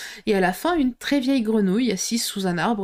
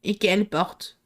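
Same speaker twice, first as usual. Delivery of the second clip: slow dragging voice. Acted. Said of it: "si lentement, d'une voix si traînante".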